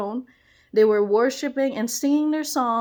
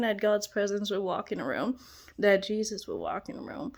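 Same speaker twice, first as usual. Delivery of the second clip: breathy hushed whisper, much softer; 4 semitones lower, 7 dB quieter than usual. Real, not acted. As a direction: whisper the longing like a prayer. Hushed prayerful longing.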